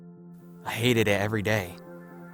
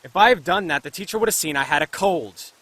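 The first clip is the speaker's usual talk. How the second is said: raised voice in a heated quarrel; indignant retort; 4 semitones higher, 4 dB louder than usual. Acted. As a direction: argue back, higher and louder. Arguing back in body-switch quarrel.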